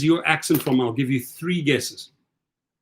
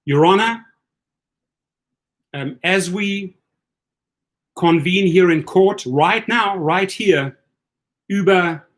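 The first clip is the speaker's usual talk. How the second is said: mock courtroom address. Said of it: "That's gonna be my attitude as well".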